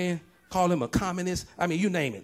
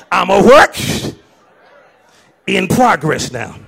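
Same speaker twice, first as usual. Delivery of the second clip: laughing; 8 dB louder than usual. Real, not acted. Congregation responding, pastor laughing.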